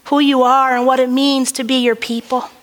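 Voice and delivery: earnest prayer voice, measured and steady. Acted. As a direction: pray it with reverence to God. Opening prayer to the congregation.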